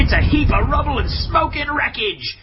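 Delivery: high, loud triumphant yelling; victorious commentator shouting; excited shout. Real, not acted. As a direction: roar the result to the crowd. Warjack destroyed, crowd roaring.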